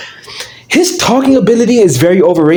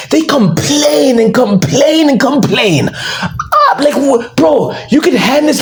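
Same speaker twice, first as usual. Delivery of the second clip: higher, slow, exasperated rant; 6 semitones higher, slower than usual. Real, not acted. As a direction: vent like it drives you mad. Ranting about complainers.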